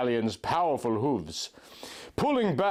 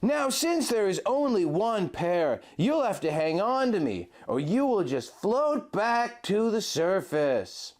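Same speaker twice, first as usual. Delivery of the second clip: Link, tender guide; 7 semitones higher than usual. A narrator's reading. Link guiding his love through the blizzard, high and gentle. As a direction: lead her by voice through the snow. Link's voice in the story.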